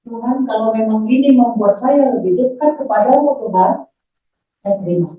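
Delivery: measured, earnest plea to God; retold prayer of acceptance. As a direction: re-enact a sincere, restrained surrender in prayer.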